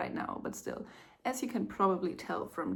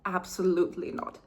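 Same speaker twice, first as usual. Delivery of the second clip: firm denial; 4 dB louder, faster than usual. Real, not acted. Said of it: "I'm in denial".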